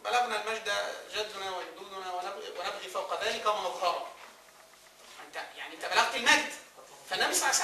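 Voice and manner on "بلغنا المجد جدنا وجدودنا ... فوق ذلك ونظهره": slow, softer verse recitation; measured quoting of old verse; poetry recitation. Acted. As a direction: recite the verse slowly and quietly. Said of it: "واحد بيقول".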